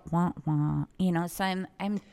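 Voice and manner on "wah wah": low "wah wah" of disappointment; mock letdown noise. Not wanting to react to the customer, mock letdown. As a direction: imitate a sad trombone, low. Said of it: "look at her and go".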